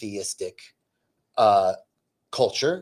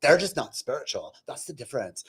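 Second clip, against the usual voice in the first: affected, gushing agreement that tails off; mock agreeing friend; 3 semitones higher than usual. Friend agreeing that they are spiritual, mock-gushing. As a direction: imitate a smug gossiping friend. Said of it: "her friend's like".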